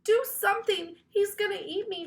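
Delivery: high frantic cry for help; panic, shrieking for rescue; terrified plea, high and loud; cried for help. A narrator's reading. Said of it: "she cried".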